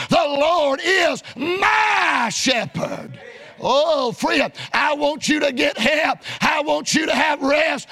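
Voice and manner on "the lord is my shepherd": slow, drawn-out joyful read of the verse; rejoicing over the verse. Real, not acted. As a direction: savour each word of the verse with delight. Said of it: "I rejoice as I read the words".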